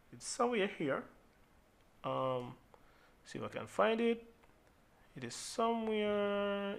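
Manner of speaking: soft, half to oneself while looking; searching aside. Real, not acted. Tutor hunting for a preset on screen, quiet searching aside. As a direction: think aloud softly as you hunt for something.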